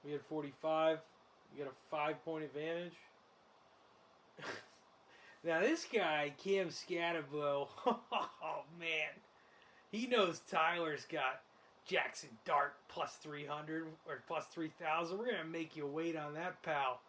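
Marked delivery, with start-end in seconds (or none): 5.4-17.0 Gruden-style broadcaster. Retold or imitated. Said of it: "I think I fell into Gruden. I was trying to do Collinsworth".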